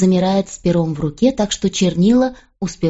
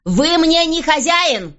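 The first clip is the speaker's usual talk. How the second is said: much higher slow shout; 9 semitones higher, slower than usual. A narrator's reading. Queen shouting at the king from the bedroom door, high and slow. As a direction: hurl it back over the threshold. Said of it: "крикнула через порог".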